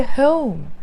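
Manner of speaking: British-accented HOME, gliding vowel; British HOME with a rounded-off glide; British pronunciation. Shown as a demonstration. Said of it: "You don't have to always say".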